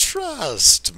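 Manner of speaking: sinister, scheming, falsely soothing tone. Retelling what Palpatine says in a scene: sinister Tim Curry voice. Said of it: "in his always sinister and not".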